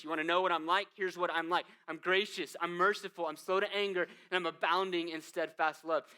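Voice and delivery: loud, declaring God's own nature; strong, ringing proclamation; proclaiming. Acted. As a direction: announce it boldly to Moses. God's self-revelation voiced.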